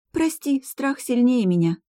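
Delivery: put-on a frightened spirit girl sobbing her apology; Gloria sobbing. A narrator's reading. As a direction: sob out a sorry through tears. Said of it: "всхлипнула Глория".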